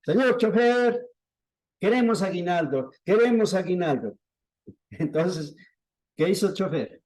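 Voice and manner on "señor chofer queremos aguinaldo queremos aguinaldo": higher-pitched mock shout to a driver; imitated calling out. Ladies asking the driver for a bonus, mock shouting. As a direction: call out a demand, half-shouted. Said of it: "empezaron a gritar al chofer".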